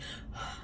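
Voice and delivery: soft breathy sigh, imitating breathlessness; winded sigh. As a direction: let out a mock winded sigh. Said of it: "I'm just out of breath".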